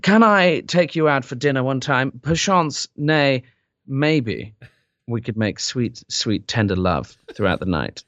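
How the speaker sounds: mock posh English accent, smooth and courtly; lightly done English accent chat-up line; English accent pickup line. Shown as a demonstration. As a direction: woo her in a hammed-up English accent. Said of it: "Like that".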